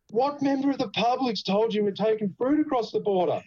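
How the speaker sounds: high-pitched incredulous demand; retold alarmed challenge. Driver turns back to the officer, retold alarmed disbelief. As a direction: re-enact a baffled protest, voice pitched well up.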